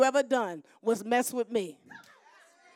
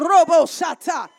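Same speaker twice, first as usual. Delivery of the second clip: loud tongues; 6 dB louder than usual. Retold or imitated. Imitating prayer in tongues.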